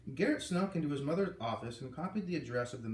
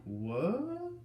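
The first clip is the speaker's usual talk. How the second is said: stammered; 7 semitones higher than usual. A narrator's reading. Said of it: "Beatrice stammered".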